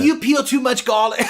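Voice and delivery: put-on high, loud British accent infomercial pitch. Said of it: "I was trying to do a British infomercial voice".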